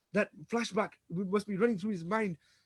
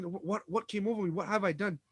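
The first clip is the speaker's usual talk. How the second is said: gasping; 4 dB quieter than usual. Acted. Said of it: "And he's gasping".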